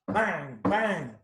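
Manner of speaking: loud knocking bang bang; banging sound. Shown as a demonstration. Reading to kids, knocking on the dragon's door, loud bangs. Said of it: "You wanna bang on the door with me".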